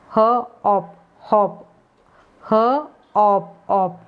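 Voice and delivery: ह and ऑप split apart, slowly, then ऑप on its own; sound split apart. Shown as a demonstration. Teacher splitting the word so students hear ह and ऑप. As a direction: break हॉप into ह plus ऑप, pausing between. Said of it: "एक दो बार बोले ऑप".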